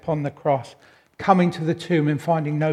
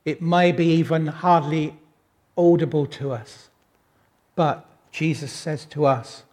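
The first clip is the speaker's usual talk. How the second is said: ordinary talk, nothing marked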